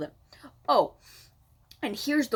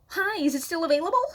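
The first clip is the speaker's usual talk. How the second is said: mock clueless buyer; 9 semitones higher, 4 dB louder, faster than usual. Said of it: "and then go".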